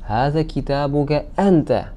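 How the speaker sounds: emphatic أنت at the end; أنت picked out with extra force; stress on أنت. Shown as a demonstration. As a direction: land firmly on the final أنت. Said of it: "أنت has been added for emphasis".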